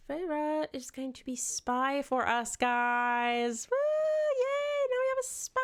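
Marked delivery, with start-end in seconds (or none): 3.7-5.6 sarcastic yay. Real, not acted. Sarcastic cheer.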